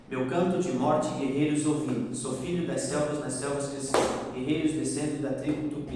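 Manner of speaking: rhythmic verse reading; poem recitation. Shown as a demonstration. Teacher recites again for the student's clapping, rhythmic. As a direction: read the lines while the student claps. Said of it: "Então vai lá".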